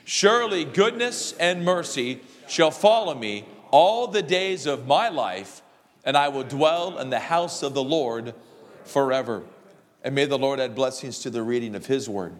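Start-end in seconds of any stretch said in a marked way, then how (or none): 0.0-9.4 group recitation. Acted. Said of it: "Say it with me".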